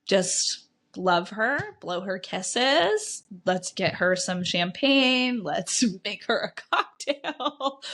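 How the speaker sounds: slow, soothing mock whisper to the kids; husband calmly coaching the kids, slow and tender; gentle instructions. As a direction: spell it out slowly and gently, half-laughing. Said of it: "And he would just be like".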